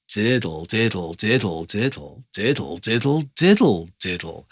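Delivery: "diddle" over and over, freely timed like speech; flexible speech rhythm. Shown as a demonstration. Keyboard teacher demonstrates flexible rhythm, speech-like "diddle". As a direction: lengthen each "did", snap "diddle" lightly. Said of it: "that's obviously a flexible feeling, more speech rhythm again".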